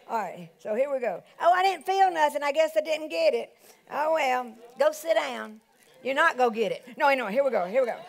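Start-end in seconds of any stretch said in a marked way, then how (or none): 1.4-7.0 mock disappointed congregant. Mimics a disappointed congregant giving up.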